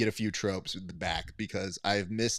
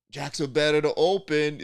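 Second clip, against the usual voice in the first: 1 bad Cajun accent; 5 semitones higher, 5 dB louder than usual. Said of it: "doing a bad Cajun accent".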